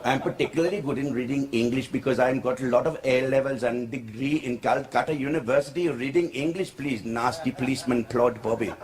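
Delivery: put-on low-pitched comic Indian English accent. Uncle defends his English to policeman, Indian accent. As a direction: protest proudly in an Indian accent. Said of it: "I won't do the accent".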